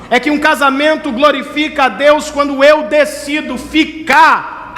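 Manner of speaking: high, impassioned pulpit delivery; preaching at full force. Acted. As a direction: thunder God's promise to the congregation, stretching key words.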